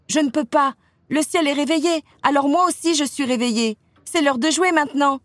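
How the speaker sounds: high, lively little-sister voice; eager child. A narrator's reading. Little sister telling Elsa it is time to play, eager. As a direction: bubble with wide-awake eagerness to play.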